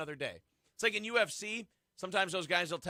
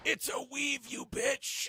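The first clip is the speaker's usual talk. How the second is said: higher, sassy put-on voice; sassy mock insult; 7 semitones higher, much slower than usual. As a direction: toss it off with sass.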